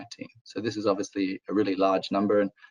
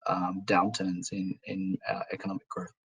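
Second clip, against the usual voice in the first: hoarse, fading voice trailing off; strained hoarse voice, losing it; 2 semitones lower, 4 dB quieter than usual. Real, not acted. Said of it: "I'm losing my voice".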